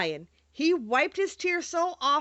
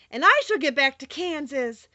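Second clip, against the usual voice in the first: cried out; 3 semitones higher, 5 dB louder than usual. Acted. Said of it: "cried Dorothy".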